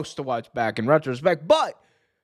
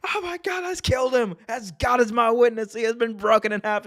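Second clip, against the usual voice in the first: much higher, shocked announcer scream; Jim Ross call; 9 semitones higher than usual. Retold or imitated. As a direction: relive the famous Hell in a Cell call. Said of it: "the Hell in a Cell call".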